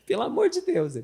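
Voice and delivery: loud, high mock protest; loud exclaim. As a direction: exclaim loudly.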